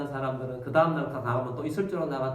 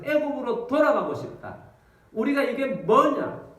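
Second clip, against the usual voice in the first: 애굽으로 돌아가고 싶다 wailed higher and louder, 우리가 이게 뭐냐 slow; loud wailing complaint; 8 semitones higher, 5 dB louder than usual. Acted. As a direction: cry out 애굽으로 돌아가고 싶다 in a loud, drawn-out lament. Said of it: "사람들이 막 엉엉 웁니다".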